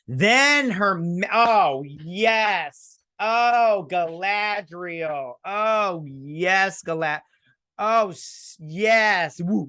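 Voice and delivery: high, slow, swooning over Galadriel; gushing excitement. Real, not acted. Fan gushing at Galadriel on the boat, high and slow. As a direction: gush like a starstruck fan.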